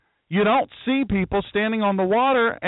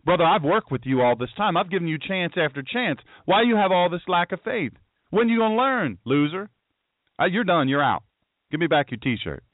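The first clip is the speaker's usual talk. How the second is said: mock impatient scolding. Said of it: "He didn't say".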